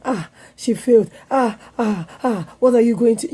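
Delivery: mock parental fretting over a failure; overbearing parent. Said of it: "we have the tendency of overbearing".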